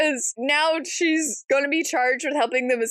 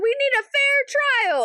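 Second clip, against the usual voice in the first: mock earnest plea; 12 semitones higher than usual. Alice voiced in retelling.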